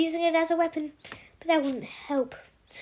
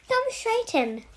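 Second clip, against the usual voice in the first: put-on nurse greeting in a light, higher broad Australian accent; 8 semitones higher, slower than usual. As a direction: welcome him with a cheery broad Australian accent. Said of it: "such a broad Australian accent".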